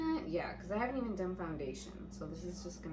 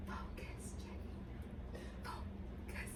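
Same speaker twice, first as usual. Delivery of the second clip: breathy whisper to herself; whispered self-talk; 4 dB quieter, slower than usual. Real, not acted. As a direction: murmur it under your breath. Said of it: "telling herself to focus".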